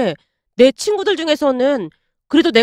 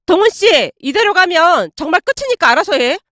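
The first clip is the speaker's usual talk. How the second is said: voiced girlfriend ultimatum; 4 semitones higher than usual. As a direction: throw down the ultimatum in her voice.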